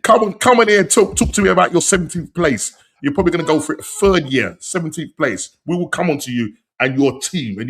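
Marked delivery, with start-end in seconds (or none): 0.0-2.8 teasing taunt. Real, not acted. Taunting a rival fan.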